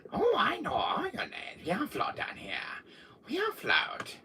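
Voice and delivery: high eerie whisper; creepy whispered clown. Acted. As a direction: tease him like a sinister clown. Voicing the clown.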